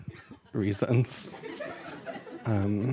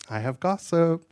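raised pitch, teasing news to share; teasing gossip announcement; 5 semitones higher than usual. Acted. Comedian playing the friend with gossip, teasing announcement.

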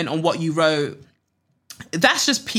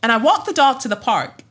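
higher-pitched African American accent demo; 4 semitones higher, 3 dB louder than usual. Shown as a demonstration. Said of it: "had to do an African American accent".

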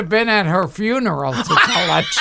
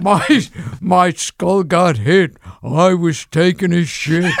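George Burns voice. Retold or imitated. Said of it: "George Burns via Jerry Seinfeld".

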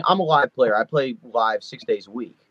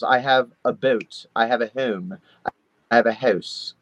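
slow South Jersey accent, vowels stretched long; 3 semitones lower, slower than usual. Shown as a demonstration. Showing how South Jersey locals stretch vowels, slow South Jersey accent. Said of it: "everyone there says very long vowels".

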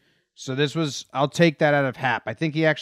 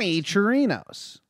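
higher-pitched showy announcer voice; Bob Uecker; 6 semitones higher, 5 dB quieter than usual. Acted. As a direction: sing out the name like a broadcaster. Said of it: "Bob Uecker voice that you say?".

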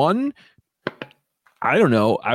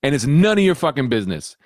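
mild mock indignation; 8 semitones higher than usual. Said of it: "And he was like".

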